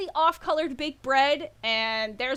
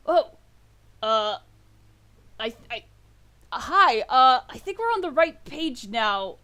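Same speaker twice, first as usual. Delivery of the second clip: a mildly surprised orc stammering a greeting; hesitant, surprised hello; 4 dB louder than usual. Acted. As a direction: caught off guard, halting.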